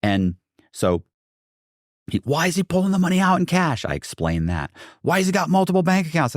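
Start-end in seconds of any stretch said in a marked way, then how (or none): 2.2-3.8 high-pitched imitated accusation; mock hollering. Bank investigator accusing a suspect, mock hollering. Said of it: "he's screaming and hollering". 5.0-6.3 high-pitched imitated accusation; mock hollering. Bank investigator accusing a suspect, mock hollering. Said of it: "he's screaming and hollering".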